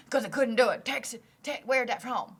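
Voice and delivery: teasing imitation of a botched Texan accent; badly faked Southern accent; mocking a failed Southern accent. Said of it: "I was me being you".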